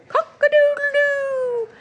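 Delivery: rooster crow. Shown as a demonstration. Teacher crowing for young language learners. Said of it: "He can go like a rooster".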